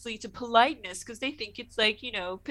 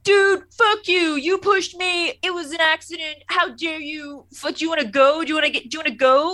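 much higher, louder, slowed-down outburst; furious Wesley; 6 semitones higher, 5 dB louder than usual. Retold or imitated. Wesley yelling back at the jock in the hallway, furious. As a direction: explode from nothing into a fight-picking rant. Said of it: "goes from zero to ten".

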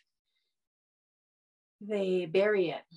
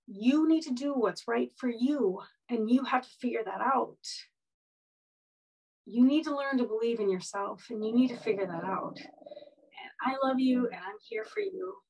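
tender aunt; 3 semitones higher than usual. Retold or imitated. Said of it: "really compassionate and really, really sweet".

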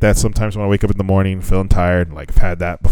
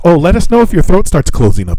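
higher-pitched imitation of medical staff; mimicked staff warning; 9 semitones higher, 4 dB louder than usual. Staff warn patient before throat spray, mimicked. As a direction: mimic a breezy high-voiced warning.

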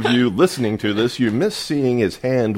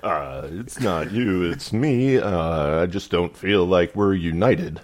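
halting pilot announcement with uhs; lightly voiced airline captain on the intercom. Pilot ending the relationship, in halting pilot voice. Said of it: "my pilot voice".

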